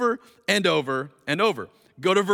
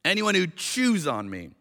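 chews weighted and falling; stress on chews. Shown as a demonstration. Preacher repeating the verse to the church, chews stressed. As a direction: land hard on chews. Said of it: "read this with that literally in mind".

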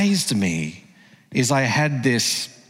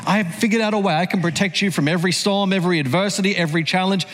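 imagined fatherly promise; 6 semitones higher, much faster than usual. Pretend. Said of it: "I wish I could do that".

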